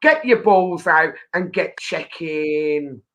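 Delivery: punchy show welcome, stretched slow at the end; catchphrase delivery. Shown as a demonstration. Host gives her catchphrase for the impressionist to copy, catchphrase delivery. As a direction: sell it like a signature sign-off, drawing out the last words. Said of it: "say one of your catchphrases".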